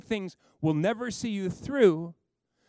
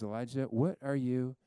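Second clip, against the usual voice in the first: a lower, hushed God asking again; still small voice; 4 semitones lower than usual. Acted. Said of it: "this still small voice comes again and says".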